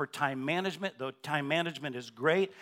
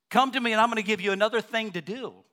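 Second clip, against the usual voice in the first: loud, fast, higher sarcastic quoting; mock misquote; 7 semitones higher, 6 dB louder, faster than usual. Preacher mocking the idea that Jesus gives more tasks, sarcastic and fast. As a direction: rattle it off like a ridiculous burden.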